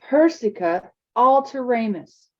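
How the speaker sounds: a hint of a frustrated boy; Zane's spell. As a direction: say the spell fiercely. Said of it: "Zane stared furiously".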